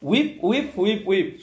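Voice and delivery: "হুইপ" for sweep, no opening s; imitated child's mispronunciation. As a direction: drop the s and say "হুইপ". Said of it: "সুইপ শব্দটা উচ্চারণ করতে পারতো না". (শিশুর মতো স বাদ দিয়ে "হুইপ")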